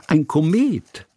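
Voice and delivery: high, delighted cry; girl excited by the kite; excited call. A narrator's reading. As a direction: point up and call it out with joy. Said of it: "rief Hanaka".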